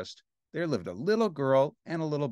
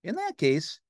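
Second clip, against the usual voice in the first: Ernie; 4 semitones higher than usual. Acted. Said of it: "said Ernie".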